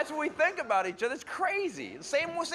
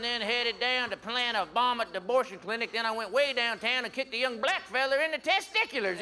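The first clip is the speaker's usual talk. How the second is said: conservative impression; 3 semitones higher than usual. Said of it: "my impression of a conservative".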